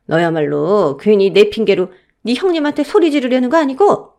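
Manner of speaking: stern elder, voice rising in bursts; disapproving, reproachful matriarch; scolding mother-in-law. Acted. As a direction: lay blame on the junior daughter-in-law. Mother-in-law's scolding, acted.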